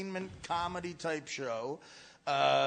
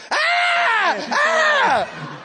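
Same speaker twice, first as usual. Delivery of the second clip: loud, high panicked screaming; panicked screams; 12 dB louder than usual. Retold or imitated. Friend stuck in a moving car's steering wheel, screaming high. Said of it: "he starts to freak out".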